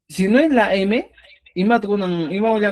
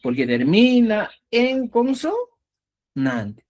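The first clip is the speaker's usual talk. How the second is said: slow explanation; 3 semitones higher, much slower than usual. Shown as a demonstration. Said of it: "¿Por qué?".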